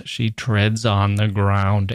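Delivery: slow, weighted words, earthbound; plodding. Shown as a demonstration. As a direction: tread heavily through each word. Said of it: "This mistress doesn't go like a goddess".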